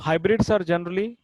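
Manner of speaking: drawn-out classroom read-aloud; slow dictation. Shown as a demonstration. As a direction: slowly read out the exam question. Teacher reading exercise question aloud.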